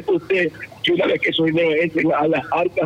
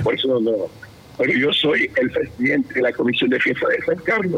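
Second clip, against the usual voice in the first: a bit voiceless, lower than usual; hoarse; 4 semitones lower than usual. Real, not acted. Festival committee president introducing himself on air, hoarse. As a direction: speak with a real strained-out voice. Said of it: "estoy un poco afónico".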